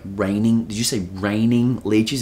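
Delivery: slow, disbelieving double-take; incredulous repeat. Retold or imitated. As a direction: ask it as if you misheard. Incredulous reply to leech warning.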